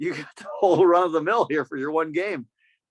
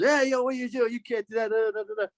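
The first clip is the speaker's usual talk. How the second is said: put-on high, huffy old man; a mock old man's scolding; 7 semitones higher than usual. Old man yelling at the humping kid, higher.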